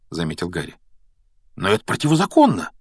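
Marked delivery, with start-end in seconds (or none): 1.5-2.7 quick, high, startled protest; surprised objection. A narrator's reading. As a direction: object in surprise, pitch climbing. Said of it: "удивился Рон".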